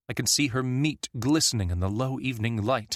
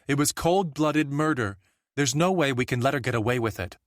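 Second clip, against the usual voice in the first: angry villager; 5 semitones higher than usual. A narrator's reading. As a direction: spit out cold-blooded murder. Angry villager demands a hunt.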